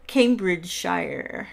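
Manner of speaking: Cambridgeshire slow and complete; drawn-out, careful Cambridgeshire; pronunciation shown. Shown as a demonstration. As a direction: say Cambridgeshire slowly with a full "shy-er". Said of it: "It's pronounced".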